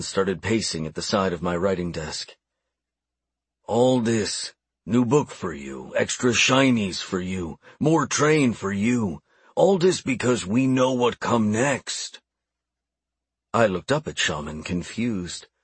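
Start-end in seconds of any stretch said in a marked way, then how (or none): 3.6-12.2 lightly voiced orc, slow in places; earnest old orc. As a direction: explain patiently as an orc elder. Orc explains the plan.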